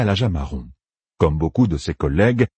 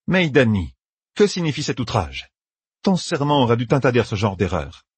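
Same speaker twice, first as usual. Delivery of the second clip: a higher, reproachful sister's voice; stern Aes Sedai; 5 semitones higher than usual. Acted. Saérine rebuking Meidani, a light stern voice. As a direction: scold her for the outrage.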